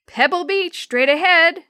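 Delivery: high, loud call over the rapids; calling out over noise. Acted. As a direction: yell it above the roaring water. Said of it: "Jeff called out above the noise".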